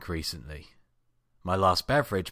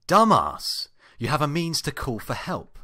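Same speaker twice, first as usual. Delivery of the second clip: self-scolding; 7 semitones higher, 6 dB louder than usual. Acted. Scolding himself for forgetting phone.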